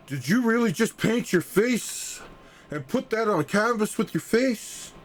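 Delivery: high, incredulous mock dealer voice; retold dealer gasping in disbelief; stunned dealer. Art dealer retold, stunned at painting.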